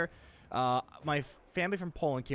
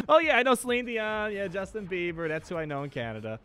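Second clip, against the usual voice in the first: smart-aleck retort; 5 semitones higher than usual. Retold or imitated. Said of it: "me being a smart aleck".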